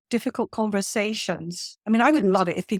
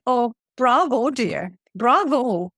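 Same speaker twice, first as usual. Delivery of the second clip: a mild touch of mocking praise, drawled; mock-applaud her with light sarcasm; sarcastic; 2 semitones higher, slower than usual. Reluctant attendee mocking the trainer, lightly sarcastic. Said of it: "sarcasm was literally dripping".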